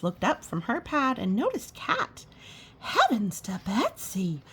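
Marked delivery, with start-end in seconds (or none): 2.8-4.4 lightly voiced waitress exclaiming; a hint of a Southern waitress; exclaimed. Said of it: "she exclaimed".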